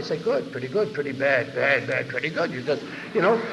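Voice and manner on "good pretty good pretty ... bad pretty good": raise and lower voice. Shown as a demonstration. Recovering alcoholic showing how feelings were voiced, rising then falling. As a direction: swing the pitch up for good, down for bad. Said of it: "you merely raise or lower your voice".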